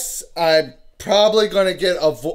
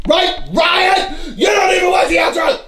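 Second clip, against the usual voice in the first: calling out accusingly; 10 semitones higher than usual. Real, not acted. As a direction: holler it as a teasing complaint. Calling out to his kid, accusing.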